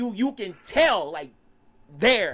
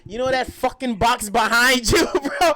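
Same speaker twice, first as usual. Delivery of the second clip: retold angry demand; 4 semitones higher, 8 dB louder than usual.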